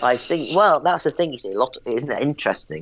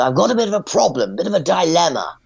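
well-spoken caller; 7 semitones higher than usual. Retold or imitated. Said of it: "he was quite well spoken".

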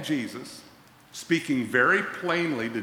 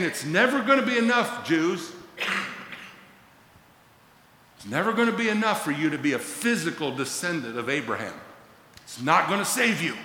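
a hint of Paul pleading, raised; mildly raised warning to the Jews; voicing Paul; 4 semitones higher than usual. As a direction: insist it will never be enough. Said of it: "He's saying".

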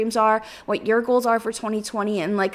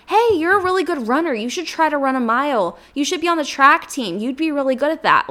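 imagined encouragement; 4 semitones higher than usual. Retold or imitated. Imagined voice praising her running.

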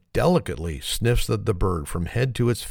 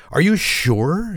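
high, drawn-out plea; mildly mock tearful distress; 9 semitones higher, 4 dB louder, much slower than usual. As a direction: lightly act a distressed duck owner. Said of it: "becomes quite distressed and begins to cry".

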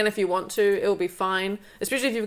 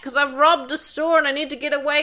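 higher, louder mock-heroic voice; a mock cocky hero voice; mocking silly hero; 6 semitones higher, 3 dB louder than usual. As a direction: send up a clueless film hero. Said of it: "person just being like".

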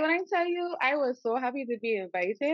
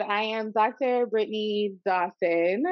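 Doctor with an accent; slower than usual. Shown as a demonstration. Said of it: "you gotta say the doctor with an accent".

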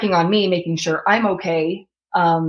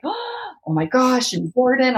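parents gasping in disbelief, voice up high; shocked parents; 5 semitones higher than usual. Retold or imitated. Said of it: "They were like".

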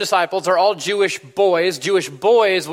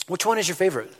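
carver turning the question back; 3 semitones higher, faster than usual. Acted. Carver answers the mother with her own question, pointedly. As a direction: hand the question back to her, pitched slightly up. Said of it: "And he says".

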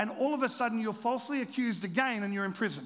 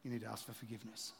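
gentle inner voice; 10 semitones lower, 12 dB quieter, faster than usual. Retold or imitated. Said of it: "Jesus is going".

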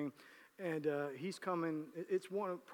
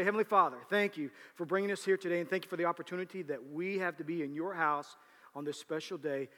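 prayer. Acted. Leads the congregation in prayer.

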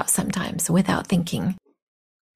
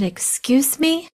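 higher, drawn-out rising question; taken aback; 8 semitones higher, slower than usual. Retold or imitated. Retelling her reply to an insult, taken aback. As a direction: stretch it out in disbelief.

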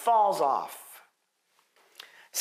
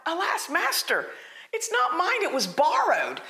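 mock cry of alarm; 6 semitones higher than usual. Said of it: "He cries out".

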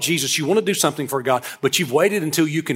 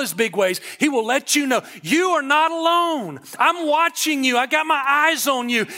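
higher-pitched, driving sermon delivery; preaching exhortation; 6 semitones higher than usual. Real, not acted. Preacher assuring the congregation they are not alone, exhorting. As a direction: lift the pitch and press the promise home.

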